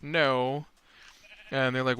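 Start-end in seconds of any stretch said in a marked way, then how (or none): 0.0-0.7 hasty higher-pitched no no no; a player caught out, backpedalling fast; flustered denial. Retold or imitated. Player character denying the challenge, flustered and higher. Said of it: "And he's like".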